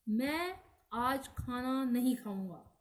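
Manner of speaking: मैं drawn out and emphasised; stress on मैं. Shown as a demonstration. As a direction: lean on मैं, slowly. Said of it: "इस पर बल देने से".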